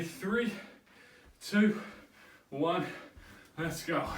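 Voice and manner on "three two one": countdown call. Real, not acted. Coach calls the countdown.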